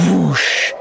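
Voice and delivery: drawn-out wind sound effect; imitated wind whoosh. Game master narrating magic around Chad, wind whoosh. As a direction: make the word rush like wind.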